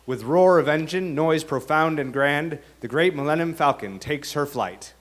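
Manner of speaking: grand, measured reading of Shakespearean verse; dramatic verse reading. Acted. Author reading his Star Wars verse, dramatic. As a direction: read it like a stage chorus, savouring the meter.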